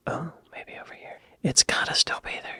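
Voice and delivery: hushed search, barely voiced; breathy under-the-breath muttering; whisper. Real, not acted. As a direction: whisper to yourself while hunting the map. Searching map quietly.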